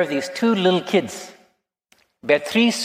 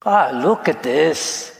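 put-on mother soothing a hurt toddler; lightly imitated comforting mom; quiet motherly voice. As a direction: coo over a small child's scrape. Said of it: "said with this quiet voice".

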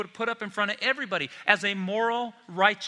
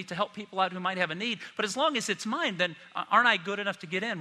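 self-justifying rich man; 3 semitones higher, faster than usual. Retold or imitated. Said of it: "Because you say".

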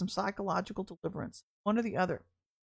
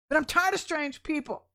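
mock exasperation; 6 semitones higher, 3 dB louder than usual. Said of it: "Sorry, I'm just kidding".

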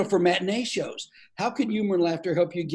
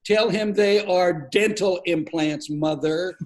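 slow, pointed correction to his mother; a hint of an exasperated son; mock-stern correction; much slower than usual. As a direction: spell it out slowly to embarrass her.

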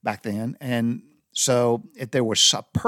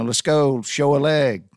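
mock yell; 3 semitones higher, 5 dB louder, slower than usual. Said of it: "walking through there screaming".

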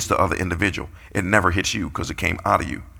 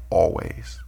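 whispered echo; 3 semitones lower, 3 dB quieter than usual. Acted. Repeating the key word aside.

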